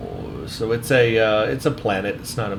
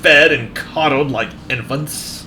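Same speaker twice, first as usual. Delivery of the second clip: arrogant Klingon officer; 3 semitones higher than usual. Acted. Voices Klingon officer dialogue.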